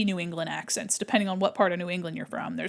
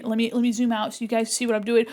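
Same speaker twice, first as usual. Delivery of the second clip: ordinary delivery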